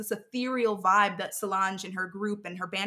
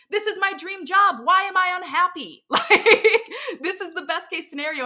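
laughing disbelief; 9 semitones higher, 6 dB louder than usual. Retold or imitated. Retold dream job confusion laughing.

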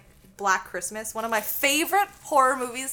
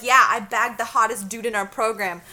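boastful brag; 9 dB louder than usual. Retold or imitated. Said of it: "And I was like".

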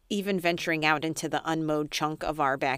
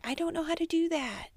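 whiny; 10 semitones higher than usual. Retold or imitated. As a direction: whine helplessly. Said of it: "And I'm like".

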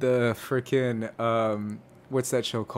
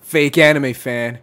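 slow, louder teasing accusation; mock jeer; 5 dB louder, slower than usual. Host teasing co-host for not watching, mock jeer. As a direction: draw it out to tease. Jeering co-host who hasn't seen anime.

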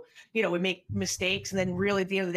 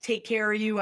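usual speaking voice

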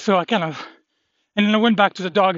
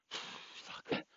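whispered curse; 23 dB quieter than usual. Real, not acted. Curse under breath after dog fight.

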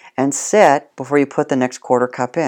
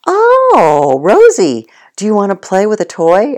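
put-on high sing-song baby talk, louder; baby talk to dog; 6 semitones higher, 6 dB louder than usual. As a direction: coo at the dog like offering a treat. Sweet-talking the dog, teasing offer.

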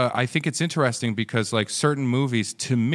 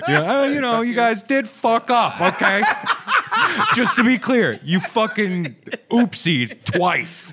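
high, loud teasing through laughter; laughing mock rant; 9 semitones higher, 5 dB louder than usual. American host teasing Germans about losing, laughing mock rant. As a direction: crow it in a high voice, cracking up.

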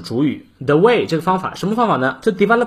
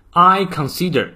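I consider, slow with a pause after it; 4 semitones higher than usual. Shown as a demonstration. Teacher pausing after "I consider" for learners. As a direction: say "I consider" slowly, then pause. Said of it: "这里停顿一下".

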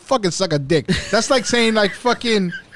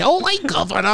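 mock British accent; 6 semitones higher than usual. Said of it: "You sound like you from London".

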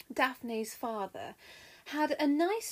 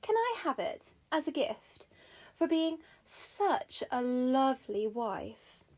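innocent; 2 semitones higher, slower than usual. Acted. Juno asks husband for a gift, innocently sweet. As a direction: coax slowly, all innocence. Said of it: "Juno replied innocently".

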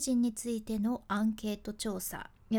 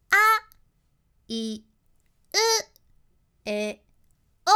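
あ high, い low, う high, え low, お high, one vowel at a time; alternating high and low; 6 semitones higher, 10 dB louder, much slower than usual. Shown as a demonstration. Voice coach demonstrating to viewers, alternating high and low vowels. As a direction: swing each vowel between top and bottom of range, loud and clear. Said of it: "みたいな感じで".

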